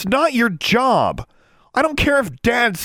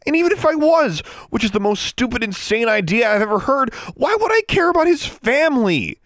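very high, loud tirade; shrieked indignant questions; outraged, voice raised; 5 dB louder than usual. A narrator's reading. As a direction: rant at him in disbelief. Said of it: "lower your voice".

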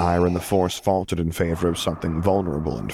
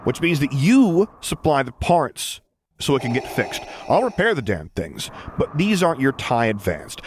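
pointed ultimatum; 9 semitones higher than usual. A narrator's reading. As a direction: spell out the terms word by word. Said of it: "accentuating each word with a pointed jab".

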